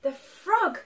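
high, loud, slow build with a gasp; dramatic climax. A narrator's reading. Reader telling children the broom breaks, dramatic. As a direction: belt out the big moment, stretching the words.

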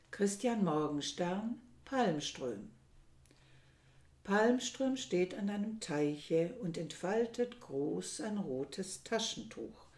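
measured, unhurried poetry reading; poem recital. Acted. Reciting a Morgenstern poem to listeners, measured poetic reading. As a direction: let each line land like verse.

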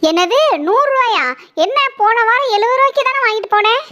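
can't believe the price went up; shocked at price. Acted. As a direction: customer balking at the shopkeeper's price, indignant.

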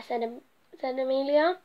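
lively storybook narration read aloud; reading to children. A narrator's reading. Storyteller reading a picture book to children, lively. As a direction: tell the bee story to little listeners.

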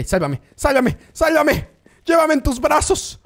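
rising comic plea for rescue; mock pleading. Streamer begs a teammate to save him. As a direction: beg dramatically to be saved.

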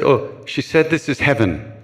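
laughing through the answer; amused reply. Retold or imitated. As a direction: say it chuckling, delighted.

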